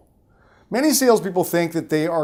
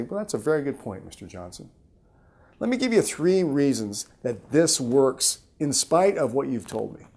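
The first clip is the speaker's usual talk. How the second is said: softer, slower, reassuring reply to an objection; slow and calm; 3 semitones lower, 6 dB quieter than usual. Shown as a demonstration. Seller answering Mister Johnson's objection, softer and slower. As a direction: ease the customer's doubt gently and slowly. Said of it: "Speak slowly".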